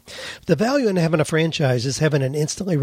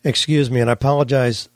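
choking a little. Real, not acted. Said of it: "I'm choking a little bit".

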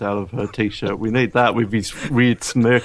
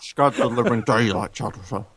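lightly imitated Scottish film star; hint of a Scottish spy impression; Connery; 3 semitones lower, 3 dB quieter than usual. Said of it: "Let's go back to Connery".

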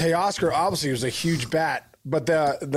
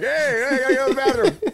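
urgent butt voice; 10 semitones higher, 4 dB louder than usual. Pretend. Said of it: "your butt is like".

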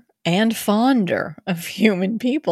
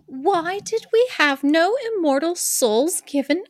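sad mermaid; 9 semitones higher than usual. Acted. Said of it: "said the Little Mermaid very sadly".

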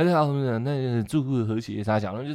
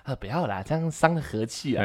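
meek pleading; 8 dB quieter than usual. Retold or imitated. Manager pleading softly.

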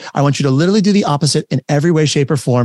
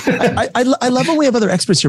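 laughing; 10 semitones higher than usual. Real, not acted. Laughs at guest's modest reply.

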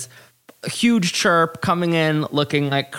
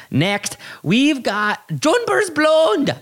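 announcer; 11 semitones higher, slower than usual. Pretend. Announcing next queen.

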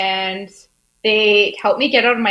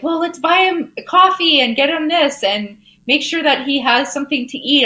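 put-on kids voice; 7 semitones higher than usual. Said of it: "They like".

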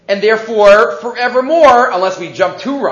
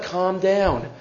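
soothing reassurance; 6 dB quieter than usual. Retold or imitated. Rabbi soothes upset innkeeper.

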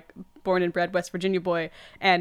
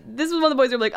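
usual speaking voice

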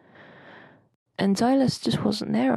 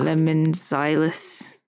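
mock grumble; 3 semitones lower, 3 dB louder, much slower than usual. Mock grudge against Silas.

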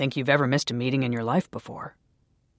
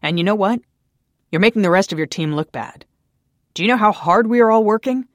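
angry tirade; 3 semitones higher, 8 dB louder than usual. A narrator's reading. Daniel berating Naomi, building to a furious shout. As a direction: tear into her, rising in fury.

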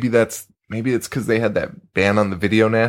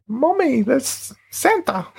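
put-on much higher, slow British little-girl voice; British child accent; slower than usual. Imitating the little girl in a British child's voice. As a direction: squeak it out like a small British girl. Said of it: "That's my British accent".

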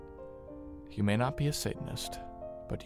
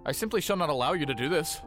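quick, higher-pitched objection; indignant refusal; 4 semitones higher, 3 dB louder, much faster than usual. Acted. Priest forbidding the theft of the scroll, indignant. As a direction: forbid it in a rush, pitch raised.

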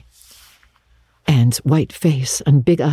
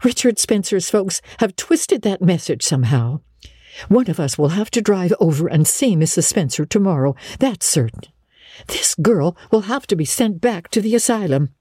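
lightly raised pitch, vexed housekeeper; vexed woman; 4 semitones higher than usual. Acted. Marilla to Matthew about the mistaken girl, vexed. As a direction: lay down the law, mildly cross.

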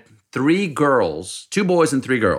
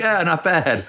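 Russian billionaire; 8 semitones higher than usual. Retold or imitated. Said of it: "He's like".

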